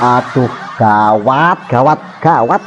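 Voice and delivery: slow teasing alarm; mock alarm. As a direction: draw out the fake worry. Mock alarm at doctor holiday.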